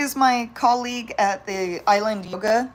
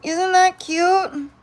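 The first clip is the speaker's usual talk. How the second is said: delighted; 8 semitones higher, 3 dB louder, much slower than usual. Real, not acted. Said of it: "repeated delighted remark".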